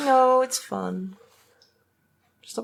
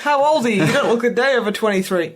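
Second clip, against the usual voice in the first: mock flattering stranger; 4 semitones higher, faster than usual. Playfully acting the questioner's reply.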